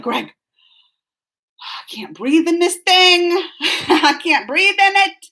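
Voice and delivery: slow, whispery mock complaint to Greg; a hammed-up whine about the mask; mock whiny complaint. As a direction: drag it out like you can't get air. Complaining to husband in store.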